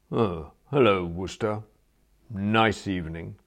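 wilting, timid greeting; obsequious. Acted. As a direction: shrink and fawn. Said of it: "He wilted obsequiously".

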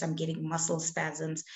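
ordinary delivery

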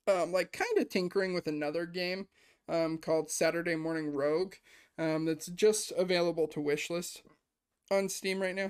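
hiccuping between words; talking through the hiccups. Real, not acted. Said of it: "Sorry, I have the hiccups".

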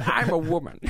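high laughing granny voice; very old woman. Acted. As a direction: squeak it like an old lady. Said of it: "That voice you were doing is very old womany".

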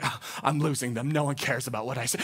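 low, soft anxious inner voice; mock despair. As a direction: sink into a worried thought, low and quiet. Pastor voicing his own anxious thought.

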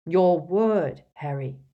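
put-on loud stern old wizard; stern demand. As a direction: insist firmly. Dumbledore demands promise.

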